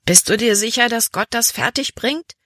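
high, sceptical question; doubting. A narrator's reading. Daughter doubts that God can manage it, sceptical. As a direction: question it doubtfully, rising at the end. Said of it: "bezweifelte sie".

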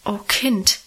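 ordinary delivery

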